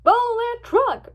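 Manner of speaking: high, loud command; drawn-out shouted order; urgent order. A narrator's reading. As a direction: order a chase, stretching the words. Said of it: "ordered Applejack".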